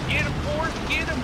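high, loud urging yell; excited yelling. Real, not acted. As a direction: cheer him on at full pitch. Urging teammate in fight.

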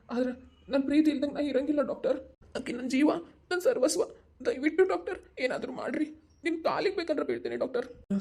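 begging the doctor, voice climbing high; desperate pleading. Acted. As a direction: plead for his wife's life, rising then sinking. Husband begs doctor to save wife.

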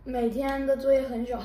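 laughing while talking. Real, not acted. Child jokes, laughing.

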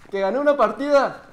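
high call to someone out of the room; calling out to mamá. Real, not acted. Child telling mamá of a win, calling out. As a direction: call the news out to your mother. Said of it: "le grito a mamá".

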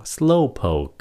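"Slowpoke" with an audible K at the end; released final K. Shown as a demonstration. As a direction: let the last K of "Slowpoke" pop. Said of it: "Có cái âm khờ đứng phía sau".

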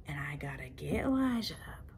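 breathy hushed aside; whisper. Real, not acted. Sneaking upstairs, kids asleep.

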